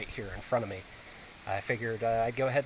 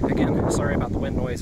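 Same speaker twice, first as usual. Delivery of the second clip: raised voice pushing through the wind; shouting over wind; 8 dB louder than usual. Real, not acted. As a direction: project over the gusts outside. Outdoors in strong wind, talking louder.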